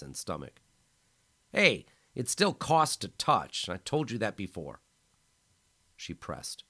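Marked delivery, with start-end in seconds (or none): 1.5-4.8 teasing. A narrator's reading. Injured man teasing her.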